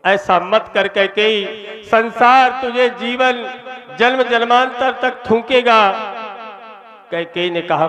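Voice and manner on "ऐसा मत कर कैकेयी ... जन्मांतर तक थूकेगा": a hint of a desperate king, pitched higher; pleading king. Dasharatha begs Kaikeyi to spare Rama, lightly voiced, rising anguish.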